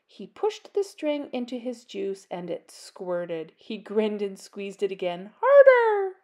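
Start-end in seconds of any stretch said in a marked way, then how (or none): 5.4-6.2 high, loud cry; excited shout. Acted. Little Bat squeezing his juice box, shouting. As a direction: shout it out with glee.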